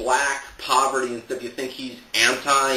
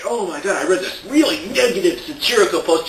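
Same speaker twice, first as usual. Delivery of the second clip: mock complaining; 3 semitones higher than usual. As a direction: imitate someone whining about an offensive post. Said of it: "all these people complaining".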